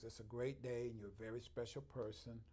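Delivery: cheerful office phone greeting, lightly acted. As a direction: answer the phone with the motto. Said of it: "I answer my phones".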